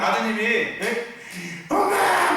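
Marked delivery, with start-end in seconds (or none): 1.7-2.3 high, loud whining yell for mom; whiny call. Retold or imitated. Son whining for his mother, loud high wail. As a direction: call mom like a nagging child. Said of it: "남자가 해가지고 징징징징".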